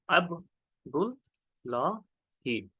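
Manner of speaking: अब्दुल्लाही very slowly, ab - dul - laa - hee; syllable by syllable. Shown as a demonstration. Teacher spells it out for students, अब्दुल्लाही in slow separate syllables.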